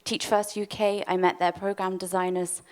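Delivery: breathless from rushing; out of breath. Real, not acted. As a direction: talk while short of breath. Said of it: "I'm very out of breath".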